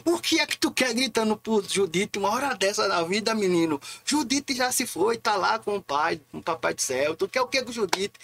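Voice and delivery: high-pitched telling-off from mum; scolding mother. Retold or imitated. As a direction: imitate an exasperated mother scolding her boy. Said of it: "ela chegou na sala assim, fez".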